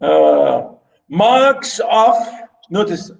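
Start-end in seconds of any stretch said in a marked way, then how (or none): 1.1-2.1 "marks of" drawn out word by word; syllable-by-syllable reading. Shown as a demonstration. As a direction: give "marks of" one long beat each. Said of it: "I'm saying marks".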